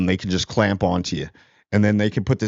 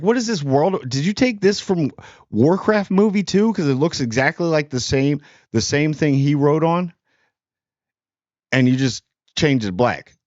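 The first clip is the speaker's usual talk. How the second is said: raised-pitch disbelief, mocking the film makers; incredulous mock outburst; 5 semitones higher than usual. Reviewer mocking the movie's copied look, high incredulous. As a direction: scoff at the copycat design, voice up high. Mocking the film's borrowed design.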